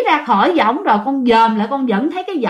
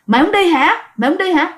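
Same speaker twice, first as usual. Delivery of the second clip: ghost threatening; 5 semitones higher, faster than usual. Retold or imitated. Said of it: "ông này lại nói rằng á là".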